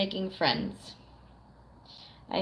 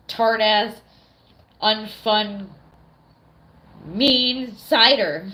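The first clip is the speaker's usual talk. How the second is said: disgusted rant; 5 dB louder, much slower than usual. Real, not acted. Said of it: "disgusted cider list".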